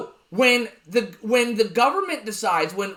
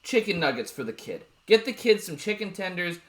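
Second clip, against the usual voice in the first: parent voice; 3 semitones lower, 4 dB quieter than usual. Retold or imitated. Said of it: "they'd be like".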